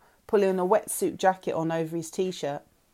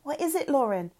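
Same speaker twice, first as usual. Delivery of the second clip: whimpering; 6 semitones higher than usual. A narrator's reading.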